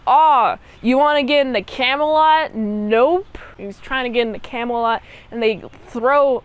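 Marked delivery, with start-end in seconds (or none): 0.1-3.4 mocking French guard. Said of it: "You got one French dude be like".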